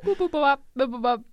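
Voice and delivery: lightly voiced toy robot beeps. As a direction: beep like a small toy robot. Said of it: "My impression of a pop singer".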